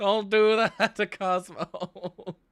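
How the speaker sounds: shocked, laughing protest, high and loud.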